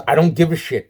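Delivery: ranting at the delay, a loud fed-up outburst; exasperated outburst. Real, not acted. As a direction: blurt it out, sick of waiting. Ranting about polar bears.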